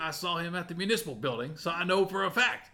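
put-on old prospector. GM voices Deputy Bob.

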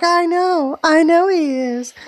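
high, slow lightly voiced young woman; Sterling's reply. Reading Sterling's line to Norman in a high voice. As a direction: pitch up for her line, drawn out and earnest.

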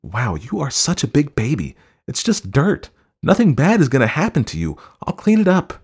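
very high, loud wife belittling her husband; scornful, swooping high voice; mocking exasperation. A narrator's reading. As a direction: taunt him like a big baby. Wife mocks husband in quarrel.

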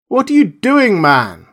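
high, loud cry of alarm across the water. A narrator's reading. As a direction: call out sharply, high and loud. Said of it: "cried Montgomery".

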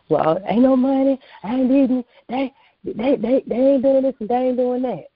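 high, whining complaint; whiny complainer. Retold or imitated. Mocking the complainers she preaches to, high and whiny. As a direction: mimic a complainer moaning about money.

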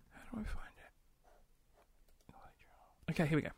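muttering in a whisper; soft whispered aside. Real, not acted. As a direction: whisper to yourself while searching. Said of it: "some quality silence".

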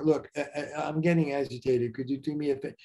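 calm, even, owning the feeling; steady non-blaming request. Shown as a demonstration. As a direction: ask gently and take ownership of it. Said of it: "that's how you say it".

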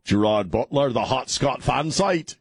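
a slow, hammed-up bad Scottish accent on the fan site name. Radio host mocks the Gerard Butler fan page in a bad Scottish accent. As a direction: drag it out in a clumsy Scottish brogue. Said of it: "the worst Scottish accent I've ever done".

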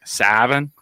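drawn-out northern New Mexican vowels in "seven"; northern New Mexican accent. Retold or imitated. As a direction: stretch "seven" with a norteño accent. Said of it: "there's that northern, that norteño".

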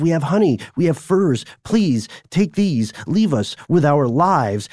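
mildly pleading retold plea; begging. Frightened survivors bargaining with Olga for their lives, mock begging. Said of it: "they begged and begged and begged".

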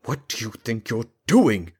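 lightly voiced mayor snapping a challenge; steely mayor. A narrator's reading. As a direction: confront him, hard as steel. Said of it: "the look he directed at Raedric was made of steel".

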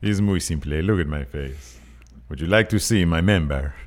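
a sultry Latino charmer, lightly voiced; purring latin lover. S0 impersonates Angel Garza.

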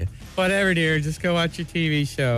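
a lightly voiced, bored parent waving the kid off; dismissive parent. Parent sends kid to TV, lightly dismissive. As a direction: brush the child off with a sigh in the voice.

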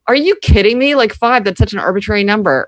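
imitating a rule-defying questioner; incredulous scoff. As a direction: scoff at the arbitrary rule in disbelief. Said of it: "or they're like".

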